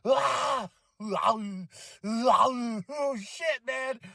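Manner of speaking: high stammering fan yell; excited shout. Retold or imitated. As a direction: lose it with excitement. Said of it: "I was like".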